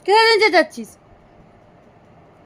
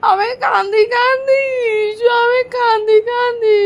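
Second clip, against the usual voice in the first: higher, whimpering pretend cry to the baby; mock crying; 4 semitones higher than usual. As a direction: fake a little sob to tease. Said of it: "কান্না করবো আমি". (বাচ্চাকে দেখিয়ে নকল কান্না)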